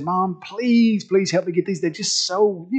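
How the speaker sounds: lightly acted pleading; begging child. Little girl begging her mom for pearls, mild pleading. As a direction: plead a little, stretching the first please. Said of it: "she was begging her mom".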